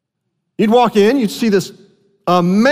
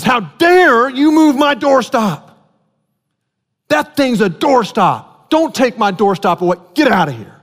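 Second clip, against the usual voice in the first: mock outrage; 4 semitones higher than usual. Friend telling the visitor to leave, mock outrage. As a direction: play the offended friend guarding his doorstop. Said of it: "your friend goes ballistic".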